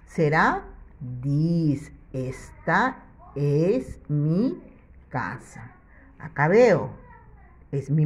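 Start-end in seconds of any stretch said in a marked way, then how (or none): 2.1-5.7 slow model sentence. Shown as a demonstration. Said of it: "teacher models the sentence".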